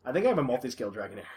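quick hushed whisper. Real, not acted. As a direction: whisper it fast, conspiratorial. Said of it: "Why are we whispering?".

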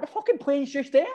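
very high-pitched, incredulous pleading; retold exasperated protest. Late passenger to airport staff, retold high-pitched protest. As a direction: re-enact arguing in a squeaky high voice.

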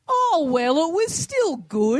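high, slow, sweetly consoling; girlfriend's consoling voice. Retold or imitated. Girlfriend consoling the failed magician, high and slow. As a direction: gently let the magician down. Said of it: "my girlfriend goes".

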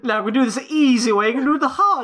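fast, high mock-menacing villain voice. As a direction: threaten them like a cartoon villain. Menacing villain threat in play.

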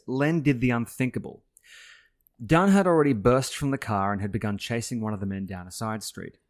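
measured audiobook-style reading with punched sentence openings; story narration. A narrator's reading. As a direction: read the passage aloud as a storyteller. Reads a passage from the book.

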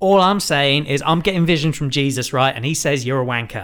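mock Essex accent, casual. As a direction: Marjorie in a cheeky Essex accent. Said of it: "I've decided that she's from Essex".

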